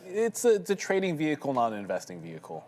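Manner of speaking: announcer pitch, trading vehicle not investing; infomercial voice. Pretend. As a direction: read it like a TV ad disclaimer. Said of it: "I'll say it in that voice, which is like the infomercial voice".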